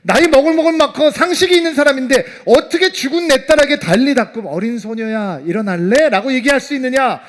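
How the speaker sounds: loud, high-pitched angry protest; outraged official demanding respect; indignant outburst. Acted. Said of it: "회당장이 화를 냈을까요?".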